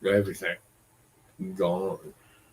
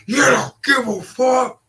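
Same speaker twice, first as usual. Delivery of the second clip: much higher, loud teary mock whine; mock crying; 14 semitones higher, 7 dB louder than usual. Roommate sobbing accusations down the phone, mocked in a high teary whine. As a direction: wail it like a grown woman sobbing at you. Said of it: "she started crying".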